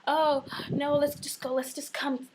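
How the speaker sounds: high, loud imitation of coaxing; mock pleading. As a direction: imitate an insistent suitor urging someone along. Retold man urging her along.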